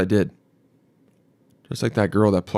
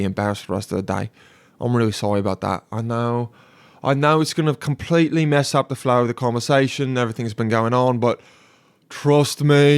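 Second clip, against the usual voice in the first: British accent. Shown as a demonstration. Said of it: "You do it in a, in a British accent".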